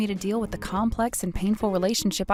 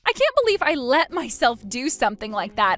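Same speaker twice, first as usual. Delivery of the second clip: pleading ex-husband; 5 semitones higher than usual. Acted. Ex begs Christine for money.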